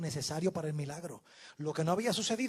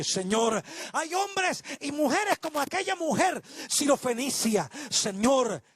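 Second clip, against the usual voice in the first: fervent public prayer; 2 semitones higher, 3 dB louder than usual. Real, not acted. Preacher thanking God and blessing the congregation, fervent closing prayer. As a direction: pray aloud earnestly in measured, swelling phrases.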